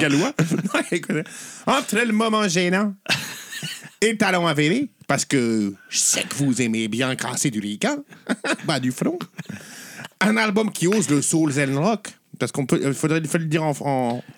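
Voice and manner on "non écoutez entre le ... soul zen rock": put-on Québécois accent. Reading a listener's album pitch on the podcast in mock Québécois accent. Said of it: "je te laisse faire l'accent québécois".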